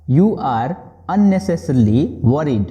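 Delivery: very slow, word by word; slow model sentence. Shown as a demonstration. Teacher modelling the English phrase slowly for students. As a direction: spell it out slowly for learners. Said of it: "बोलेंगे आप".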